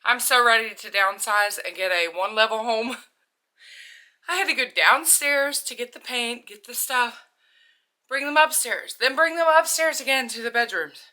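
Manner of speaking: panting between words after the stairs; winded from climbing the stairs; out of breath. Real, not acted. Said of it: "I'm out of breath because".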